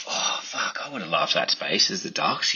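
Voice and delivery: breathy under-the-breath whisper; whispered aside. Retold or imitated. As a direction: hush it like a private thought. Private thought voiced in retelling.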